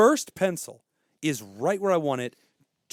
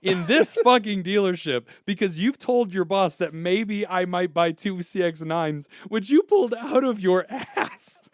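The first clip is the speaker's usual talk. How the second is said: building louder and higher, indignant; retold angry rant; 6 semitones higher, 4 dB louder than usual. Ranting at the car salesman over lunch, indignant and loud. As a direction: lay into him, getting hotter with each point.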